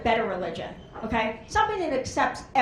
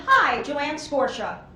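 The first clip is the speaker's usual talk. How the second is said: slow drawn-out name; much slower than usual. Shown as a demonstration. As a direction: say your name slowly, stretching each word. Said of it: "So I said".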